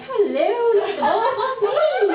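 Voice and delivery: high, laughing mock boast; a hint of swaggering boys; strutting teen boys. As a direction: show off like a cocky teen.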